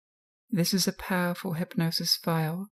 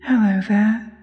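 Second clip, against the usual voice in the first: hypnosis voice; 4 dB louder than usual. Acted. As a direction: lull the listener into trance. Hypnosis guided relaxation.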